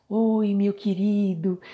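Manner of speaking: criticize in an exaggeratedly sweet, high voice; mock-sweet lilting reproach; sugary sweet. Shown as a demonstration. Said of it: "você fala docemente, mas você tá criticando".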